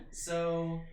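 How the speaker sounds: real burst of laughter; loud laugh. Real, not acted. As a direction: laugh out loud into the next word. Big laugh at own transition.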